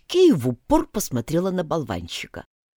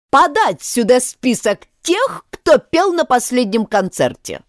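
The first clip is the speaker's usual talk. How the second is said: stern order; 7 semitones higher, 4 dB louder than usual. A narrator's reading. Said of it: "королева нахмурилась и приказала".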